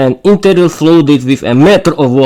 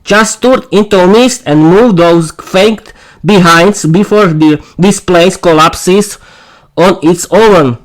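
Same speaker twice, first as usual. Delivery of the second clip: stern order; 4 semitones higher than usual. Acted. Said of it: "Zofia barked".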